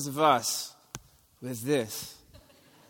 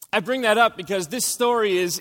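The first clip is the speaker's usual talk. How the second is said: ordinary talk, nothing marked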